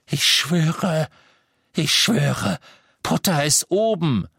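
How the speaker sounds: begging to be believed; terrified father swearing; desperate oath. A narrator's reading.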